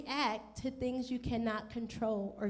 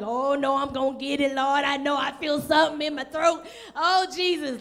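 mock panic; 4 dB louder than usual. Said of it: "the one who's panicking".

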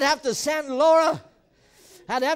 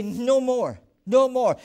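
louder, firm refusal; firm declaration; 4 dB louder, slower than usual. Shown as a demonstration. Pastor modeling rejecting fear, firm and loud. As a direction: say it straight in its face. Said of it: "look it in the eye and say".

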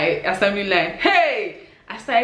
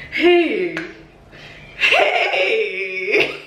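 embarrassed laughing cry. Real, not acted. Vlogger reliving her embarrassing mistake for viewers, mortified laughing wail. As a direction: wail it long through a laugh.

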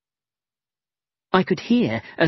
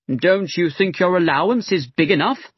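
sharp; 3 semitones higher than usual. Acted. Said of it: "said sharply".

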